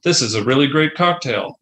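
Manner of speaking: stiff, even robot voice. Pretend. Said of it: "is in a robot voice".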